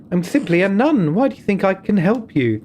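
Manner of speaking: a nun cautioning the visitor, firm and grave; stern nun. Acted. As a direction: warn him like a careful abbey sister. Voices the nun in dialogue.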